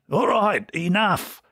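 mild shout. A narrator's reading. Publican breaks up the row, mildly shouting. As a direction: call a halt in a high voice. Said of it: "he shouted".

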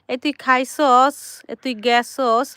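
lightly imitated son's regional Bengali, words stretched; child's drawn-out Bengali dialect, mildly mimicked; imitating regional Bengali drawl. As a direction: draw out the regional Bengali endings. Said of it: "ওই একটু টান দিয়ে কথা বলে".

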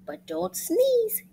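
high, drawn-out warning; high slow warning. Acted. Warning about sneezing.

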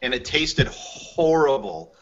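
words slowed by real laughter; laughing as he tells the host about the horrible beer. Real, not acted. Telling the host the beer was horrible, laughing.

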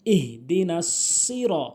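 "সিরা" with a heavy, full s and rounded "ro"; slow down on the emphatic s of "সিরা"; heavy sad. Shown as a demonstration. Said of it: "সতের উচ্চারণ করতে হবে".

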